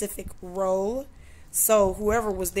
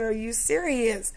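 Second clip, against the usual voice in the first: mock outrage, pitch jumping higher and louder; retold angry outburst; 4 semitones higher, 4 dB louder than usual. Retelling her outburst at the store clerk, loud and indignant. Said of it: "I said".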